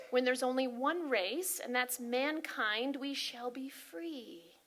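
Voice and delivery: slow, weighty recitation that slows further and softens; solemn quote reading. Acted. Sharing a singer's quote with the congregation, solemn and slow. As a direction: read it like a solemn proclamation. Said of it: "This is a quote by a singer".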